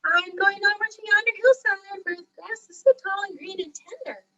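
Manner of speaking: high-pitched little billy goat; small, high storybook animal voice; tiny goat voice. A narrator's reading. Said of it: "answered in his tiny voice".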